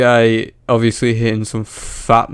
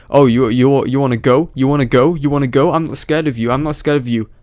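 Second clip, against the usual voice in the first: slightly raised imitation of a man squaring up; mock challenge; 3 semitones higher than usual. Commentator mimicking the short man challenging a bigger one, mock bravado. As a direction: goad them, mimicking a cocky challenger. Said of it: "where he's like".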